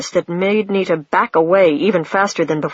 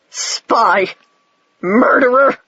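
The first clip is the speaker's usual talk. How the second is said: howling; 4 semitones higher, slower than usual. A narrator's reading. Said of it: "The sperm was howling".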